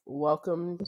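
croaky, hoarse voice; frog voice. Real, not acted. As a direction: talk through a croaky throat. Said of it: "I sound like a frog".

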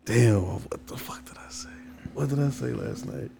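hazy, whispered stoner mumble; searching for words, half whispered; stoned. Real, not acted. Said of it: "'cause I'm stoned right now".

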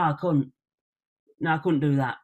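"couldn't" squashed to sound like a swearword; Hull pronunciation. Shown as a demonstration. Showing why outsiders hear swearing, Hull pronunciation. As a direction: Hull "couldn't" with the middle d swallowed. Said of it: "sounds like the C word".

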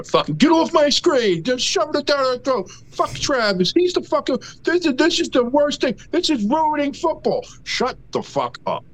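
fed-up rant, pitch climbing; angry rant. Real, not acted. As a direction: vent hard, like you've held it in for ages. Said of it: "Breathe. Breathe".

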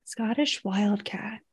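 slow whispered murmur; hushed. Real, not acted. Co-host looking up the wildcat, hushed. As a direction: say it slowly under your breath.

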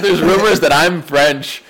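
slow, spaced-out restatement; deliberate repeat. Real, not acted. Repeating a missed joke to the friends, slowly and distinctly. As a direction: repeat it slowly so every word lands. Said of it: "I said".

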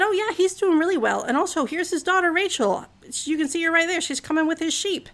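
a hint of an eager shepherd; helpful shepherd. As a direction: chirp it like a helpful local pointing the way. Shepherds tell Jacob about Rachel.

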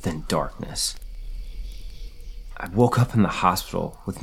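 dramatic first-person horror story reading; read-aloud campfire horror tale; story narration. A narrator's reading. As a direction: tell a scary story, stressing key moments.

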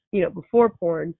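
ordinary talk, nothing marked

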